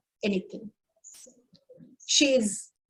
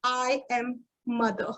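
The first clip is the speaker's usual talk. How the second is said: soft, quiet and steady; calm; 7 dB quieter than usual. Retold or imitated. Mother calmly answering the furious father. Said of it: "calmly said".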